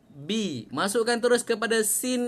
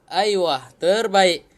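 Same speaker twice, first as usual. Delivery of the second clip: upbeat praise; 5 dB louder, slower than usual. Real, not acted. Praising own recitation.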